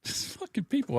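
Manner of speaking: soft exasperated whisper. Real, not acted. Fed up with critics, a hushed whisper. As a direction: breathe it out under the voice.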